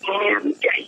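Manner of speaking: soft, low-key answer, a shy hush; quietly retold reply. Shy girl answering a curious classmate, quietly. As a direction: answer the classmate quietly, almost under your breath. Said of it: "আমি আস্তে আস্তে বল".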